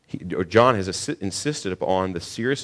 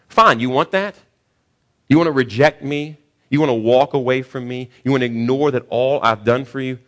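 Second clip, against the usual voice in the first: exasperated challenge; 3 semitones higher, 5 dB louder than usual. Acted. Preacher voicing God confronting rejecting people, indignant. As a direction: throw each question back at them. God voiced giving them over.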